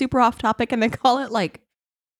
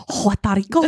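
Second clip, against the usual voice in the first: imitating Trump; 3 semitones lower than usual. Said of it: "It's like".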